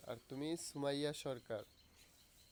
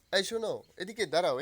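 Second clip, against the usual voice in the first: yelling across the room; 7 dB louder than usual. Real, not acted. Calling a child over.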